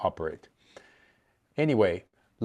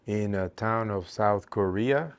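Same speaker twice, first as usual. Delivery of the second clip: slow syllable count. Shown as a demonstration. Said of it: "that's seven".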